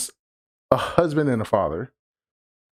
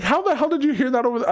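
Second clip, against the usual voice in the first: incredulous; 11 semitones higher, faster than usual. Retold or imitated. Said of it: "I was like".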